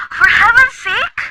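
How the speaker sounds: high and slow, scandalised; for heaven's sake, properly scandalised; exasperated outburst. Acted. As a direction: drag it out in disbelief. Outraged at the red tape.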